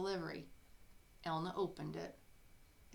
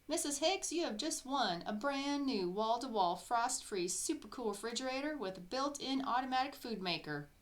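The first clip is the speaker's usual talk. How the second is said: high, loud game-show pitch; excited prize call; 5 semitones higher, 4 dB louder than usual. Acted. Caller announcing a refrigerator prize, thrilled. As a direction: sell the prize like a TV host.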